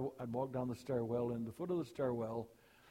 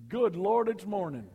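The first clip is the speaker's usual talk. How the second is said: mock groan; 6 semitones higher, 9 dB louder than usual. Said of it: "Some folks get up and say".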